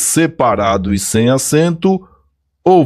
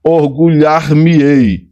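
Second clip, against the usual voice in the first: orgulhar-me-ei spelled out slowly, me-ei apart; slow clear demo; 3 semitones higher, slower than usual. Shown as a demonstration. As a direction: stretch out orgulhar-me-ei for the class. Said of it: "mas olha". (orgulhar-me-ei devagar e bem separado)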